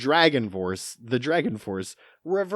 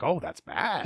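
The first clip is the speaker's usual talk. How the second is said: deadpan understatement; 6 semitones higher than usual. Shown as a demonstration. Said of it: "in a panicked voice".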